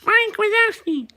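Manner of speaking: squeaky helium-high Mike Wazowski. Retold or imitated. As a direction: stretch the name out like Mike from Monsters Inc. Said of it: "Did my voice get really high on helium".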